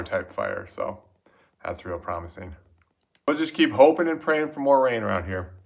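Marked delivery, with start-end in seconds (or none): 3.3-5.5 talking with mouth full; words round a bite of food. Real, not acted. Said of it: "shouldn't talk with your mouth full".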